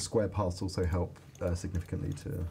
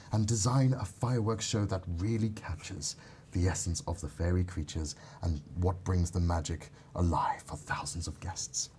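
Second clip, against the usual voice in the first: fairy voice. Pretend. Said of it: "So I want you to do a fairy voice".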